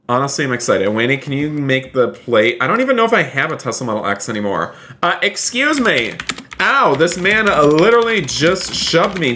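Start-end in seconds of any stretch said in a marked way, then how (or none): 5.0-9.3 indignant surprise. Real, not acted. Avatar shoved in game.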